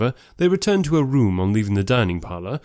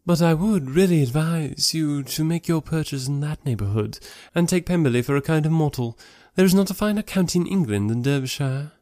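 higher-pitched, advising society lady; Miss Bingley; 5 semitones higher than usual. Acted. Sister advising Charles on buying property, insistent. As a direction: press the advice in a raised ladylike voice.

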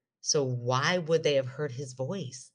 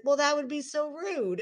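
imitating husband, laughing; 11 semitones higher than usual. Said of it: "He was like".

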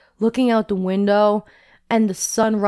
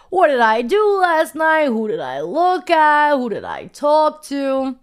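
anxious questions, pitched up and slowed; retold panic; 4 semitones higher than usual. Asking herself about last night, mild mock panic. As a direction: replay the morning-after dread, half-acted. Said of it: "I was just, like, freaking out".

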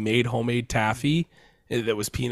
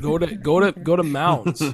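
calling out; 5 semitones higher, 5 dB louder than usual. Real, not acted. Calling to Tony.

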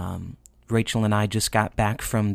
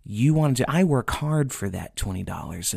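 upset dad; 3 semitones higher than usual. Retold or imitated. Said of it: "is very upset".

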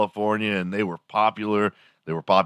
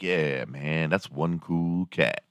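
lightly voiced sixties cool cat, softer and slow; sixties hipster; 2 semitones lower, 5 dB quieter, much slower than usual. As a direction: lay it back like a sixties hipster. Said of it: "back in the sixties, they'd be like".

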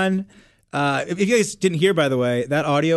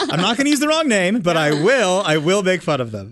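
mock angry fan; 3 dB louder than usual. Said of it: "You know, like".

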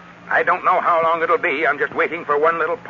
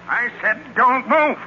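slow, spaced-out, higher-pitched order; insistent command; 6 semitones higher, slower than usual. Acted. Gunman repeating his order to intruders, slow and insistent. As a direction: repeat it slowly, weighting each word.

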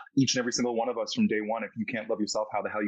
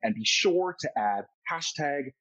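lilting, animated outro read; podcast host sign-off; 3 semitones higher than usual. Acted. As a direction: send the listeners off with deliberate, showy emphasis. Host reads the show's outro.

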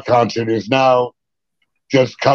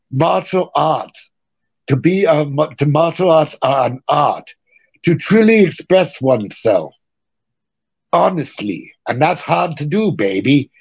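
Bruce Lee quote; 2 semitones higher than usual. Retold or imitated. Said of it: "like Bruce Lee would say".

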